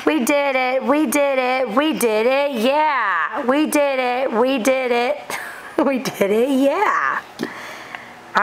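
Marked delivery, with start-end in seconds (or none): 0.1-7.2 excited cheering. Real, not acted. Celebrating toddler opening egg.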